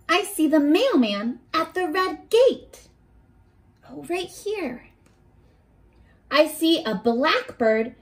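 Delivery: gentle storybook read-aloud; reading to children. Acted. Teacher reading a picture book to her class, storybook voice.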